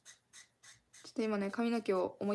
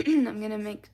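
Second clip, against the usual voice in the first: a voice that suddenly won't behave, louder; voice going odd; 8 dB louder than usual. Real, not acted. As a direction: clear the throat, then the voice catches on the words. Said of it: "my voice is so stupid".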